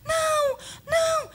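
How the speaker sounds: very high, loud screaming no; terrified wail. Acted. TV woman screams as the door breaks, terrified. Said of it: "a mocinha lamenta".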